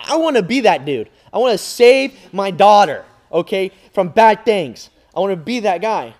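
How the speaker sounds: loud, high dad's vow; loud heroic vow. Retold or imitated. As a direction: declare it like a movie hero. Imitating a heroic dad.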